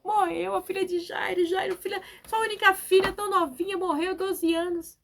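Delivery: high-pitched mock weeping; put-on tearful voice, pitched high; imitated wailing. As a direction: imitate mourners wailing over a death. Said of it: "o povo chorando".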